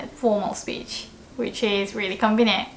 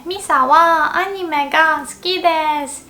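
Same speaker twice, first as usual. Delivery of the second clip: put-on childish self-naming; 6 semitones higher, 3 dB louder than usual. Shown as a demonstration. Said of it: "That sounds childish".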